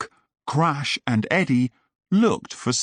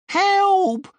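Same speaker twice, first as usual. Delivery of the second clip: high, loud panicked cry; shouted for help; 4 dB louder than usual. Acted. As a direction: scream for help, scared. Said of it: "Sid shouted".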